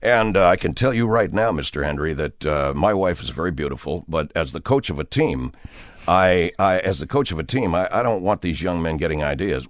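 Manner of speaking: deep-voiced coach explaining himself to the host; earnest team coach. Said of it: "getting a guy on the radio and saying".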